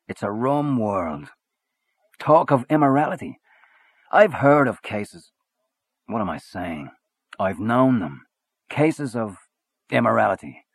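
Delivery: lightly voiced swaggering Irish journalist; a hint of a hearty Gallagher. A narrator's reading.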